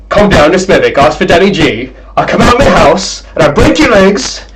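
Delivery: put-on high, loud Brummie rage kid; imitating an angry Birmingham gamer; angry Xbox chatter. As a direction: do the raging Xbox live kid. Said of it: "sound like that guy from the Xbox".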